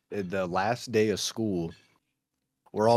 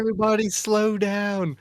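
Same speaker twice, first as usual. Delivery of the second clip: put-on high, strained old lady voice; old lady imitation; 11 semitones higher, 5 dB louder than usual. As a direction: mimic the lisping old principal. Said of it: "And she was like".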